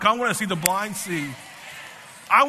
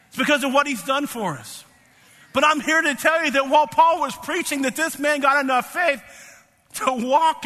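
higher-pitched, forceful pulpit delivery; impassioned preaching; 5 semitones higher than usual. Real, not acted. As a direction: preach it with rising urgency to the congregation.

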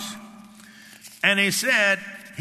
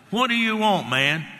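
casual paraphrase; 5 semitones higher, 3 dB louder than usual. Acted. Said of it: "I'm gonna paraphrase it, our language".

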